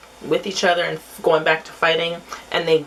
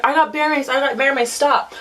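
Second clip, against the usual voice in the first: retold warning; 8 semitones higher than usual. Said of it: "So I was like".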